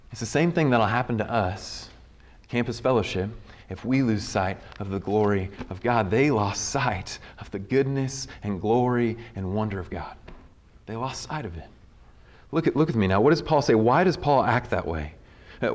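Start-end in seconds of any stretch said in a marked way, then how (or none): 0.1-11.7 low, hushed gravity, sinking softer to the end; solemn warning. Real, not acted. Preacher warning his own fellowship about losing sight, solemn hush. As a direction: drop low and soft, sober and grave.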